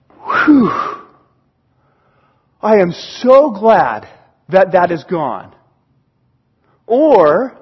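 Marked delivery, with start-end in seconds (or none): 0.1-5.5 heartfelt mock relief after a big exhale; relieved. Forgiven person hearing the debt is gone, relieved. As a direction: breathe out relief, then speak slowly. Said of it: "They go".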